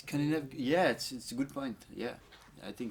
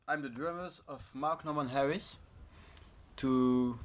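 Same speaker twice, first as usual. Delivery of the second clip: louder, careful announcing; to someone hard of hearing; 3 semitones higher, 6 dB louder than usual. Real, not acted. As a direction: speak up so the mic hears. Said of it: "Can you speak louder".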